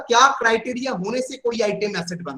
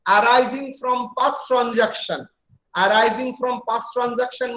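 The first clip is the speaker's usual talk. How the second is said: each word spelled out slowly for notes; slow dictation; much slower than usual. Acted. Teacher dictating a definition to students, slow and even.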